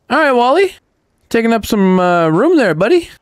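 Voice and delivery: high sing-song teasing to a pet; pet talk. Real, not acted. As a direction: playfully scold the little buddy. Teasing robot about space.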